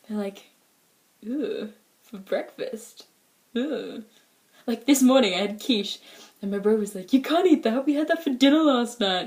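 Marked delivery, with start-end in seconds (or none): 1.3-4.0 slow, softer, drawn-out distaste; hushed, exaggerated "eww" reaction; mock disgust. Family's disgusted reaction acted out. 7.1-9.3 higher, louder brotherly protest; playful scandalised complaint; mock objection.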